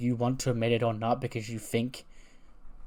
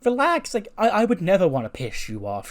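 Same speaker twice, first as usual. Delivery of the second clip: much higher, louder fake-sweet relax; mock sweet Charlotte; 8 semitones higher, 6 dB louder than usual. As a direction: squeak it up like a fake-nice plea. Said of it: "And Charlotte goes".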